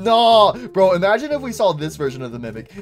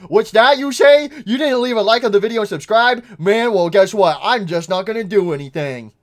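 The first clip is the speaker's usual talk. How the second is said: loud, huffy mock sulk at the viewer; mock grumpy; 5 semitones higher, 6 dB louder than usual. Youtuber scolding viewers who didn't subscribe, mock grumpy sulk. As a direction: pout it out like a cranky kid.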